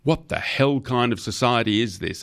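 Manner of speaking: high-pitched indignant outburst; impassioned rant. A narrator's reading. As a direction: build the indignation, pitch climbing sharply. Torrent's rant on low pay.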